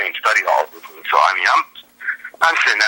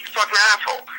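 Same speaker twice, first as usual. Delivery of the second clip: mock outrage; 10 semitones higher than usual. Retold reaction to teacher.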